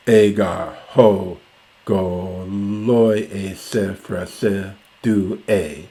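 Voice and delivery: measured, deliberate reading of verse; reciting Homer to the class; slow Greek recitation. Shown as a demonstration. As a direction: read out the Greek line slowly. Reciting the Greek line again.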